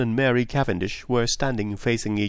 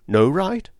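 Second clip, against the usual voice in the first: raised pitch, mildly shaken questions; unsteady; 7 semitones higher, 4 dB louder than usual. A narrator's reading. Husband appealing to his wife, mildly unsteady. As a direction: question her with understated distress, voice lifting. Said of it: "he said unsteadily".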